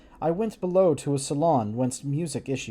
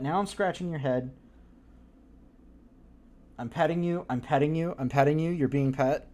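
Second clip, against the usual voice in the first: petting the cat. Real, not acted. Baby talk to cat.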